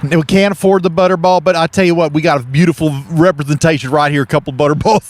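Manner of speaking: hammy folksy TV host; Southern cooking show hosts. Pretend. Two hosts pitch a turkey to viewers, folksy Southern.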